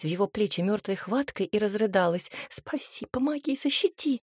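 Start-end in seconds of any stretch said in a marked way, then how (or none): 2.5-4.2 whispered plea; frantic whisper. A narrator's reading. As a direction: beg in a breathless whisper. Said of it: "зашептала она".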